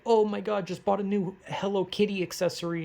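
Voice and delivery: cutesy gushing poster. Retold or imitated. Mocking a cutesy Twitter post.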